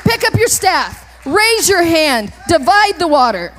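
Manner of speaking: forceful, drawn-out orders; commanding. Acted. God giving Moses clear instructions, forceful command. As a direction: give each order with ringing force.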